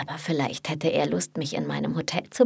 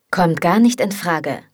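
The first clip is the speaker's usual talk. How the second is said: firm; 6 dB louder than usual. Acted. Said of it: "bestimmt Liam".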